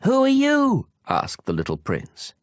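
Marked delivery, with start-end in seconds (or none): 0.0-0.9 high, ringing question called out; high calling voice. Acted. The prince calls to the peaks, high and ringing. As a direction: call it up into the mountains.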